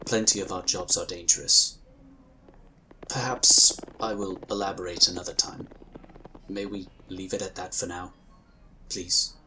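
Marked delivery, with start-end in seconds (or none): 3.1-8.1 hushed aside. Acted. Whispering to a best friend to drop the subject. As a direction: whisper it, not wanting to go there. Avoids painful question about being shot.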